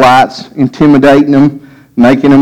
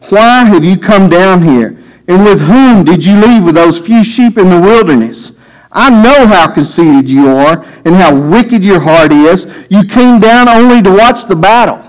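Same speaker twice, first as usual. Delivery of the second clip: angry brother. Acted. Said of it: "he burned with anger at him".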